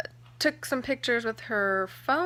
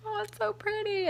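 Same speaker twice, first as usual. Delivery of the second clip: delighted gushing; 12 semitones higher than usual. Retold or imitated. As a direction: gush over it in a high pitch. Retold admiring the new ring.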